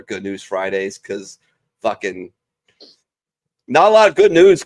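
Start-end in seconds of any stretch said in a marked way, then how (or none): 3.7-4.6 voice crack. Real, not acted. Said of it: "There's my voice crack for the show".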